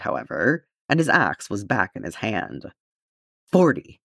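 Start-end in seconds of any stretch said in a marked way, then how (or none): 3.5-4.0 loud, high battle shout mid-swing; shouted count. A narrator's reading. Gimli calls his kill count to Thorin, loud shout. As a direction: bellow the number out over the fight. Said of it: "he shouted".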